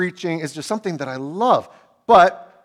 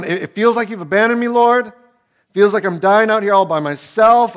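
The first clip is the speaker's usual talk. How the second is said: louder, higher, rushed plea; anguished cry; 6 semitones higher, 7 dB louder than usual. Acted. David crying out to God that he's abandoned, loud and anguished. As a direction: cry out like you've been left alone.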